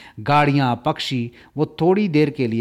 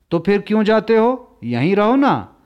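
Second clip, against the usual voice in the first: put-on pleading girl; 6 semitones higher, 4 dB louder than usual. A narrator's reading.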